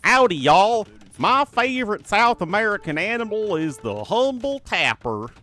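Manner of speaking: hammed-up Southern American accent, loud and high; a cheerful howdy in an over-the-top Southern accent. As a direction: play a big friendly Texan cowboy in a Southern accent. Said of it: "Or a Southern accent".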